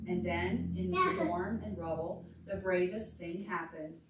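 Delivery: lively read-aloud to a class; story reading for children. Acted. Teacher reading a picture book to the class, lively storytime voice.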